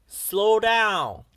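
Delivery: loud, high shout over the engine noise; urgent shout. A narrator's reading. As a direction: yell it to make him slow. Driver urging speeding engine.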